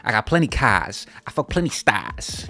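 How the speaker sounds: drawn-out mock Chicago drill accent; fake Chicago accent. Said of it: "a fake Chicago accent".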